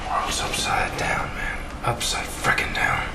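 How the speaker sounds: slow, whispered disbelief; disbelieving mutter. Acted. Soldier whispering to himself about a crazy plan. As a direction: shake your head in a muttered aside. Soldier marveling at absurd orders.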